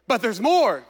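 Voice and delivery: a hint of an infomercial pitch. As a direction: sell it like a TV ad. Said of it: "That sounded like an infomercial".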